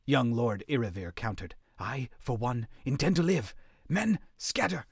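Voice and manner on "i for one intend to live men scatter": defiant order. A narrator's reading. Young lord defies, orders men.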